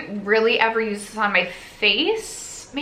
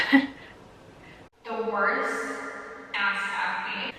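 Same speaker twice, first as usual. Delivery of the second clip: laughing through an awkward confession; slow, giggly overshare getting quieter; embarrassed laughing; 8 dB quieter, much slower than usual. Real, not acted. Embarrassed laughing over private confession.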